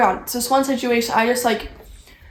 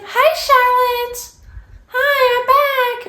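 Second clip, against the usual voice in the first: chirpy roommate; 12 semitones higher than usual. Retold or imitated. Mocking the roommate returning, high sing-song greeting. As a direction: greet her like nothing ever happened, bright and breezy. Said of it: "She's like".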